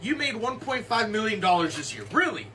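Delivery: interrogating tax auditor. Acted. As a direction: grill him like a suspicious tax man. Tax auditor grills the rich player.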